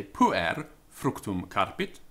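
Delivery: Puer given the main weight; stress on Puer. Shown as a demonstration. Teacher showing Latin word order, stress on Puer. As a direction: lean on Puer, slowly through the phrase. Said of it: "the emphasis there being on the boy".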